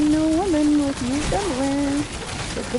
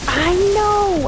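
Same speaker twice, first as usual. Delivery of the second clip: much higher, exclaiming; emphatic agreement; 9 semitones higher, 3 dB louder than usual. Real, not acted. Streamer agreeing with chat about bathwater buyers, emphatic exclaim. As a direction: burst out agreeing.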